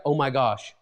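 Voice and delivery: catching yourself sounding like your mom; mock dawning realization. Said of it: "saying something like".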